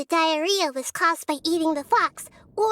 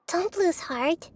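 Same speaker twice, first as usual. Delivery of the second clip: reassuring; slower than usual. Acted. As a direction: gently lift their spirits. Comforting a troubled friend.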